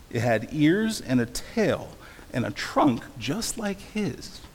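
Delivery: animated read-aloud with strong rhythmic stresses; storybook reading. A narrator's reading. Preacher reads Dr. Seuss to listeners, animated storytelling. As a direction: lean into the rhyme, punching key words. Reads picture book to congregation.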